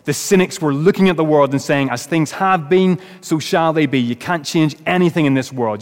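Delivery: mild mock pulpit shouting; retold preacher shout. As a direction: build the sermon up with force. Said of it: "He picked up the volume still more and shouted".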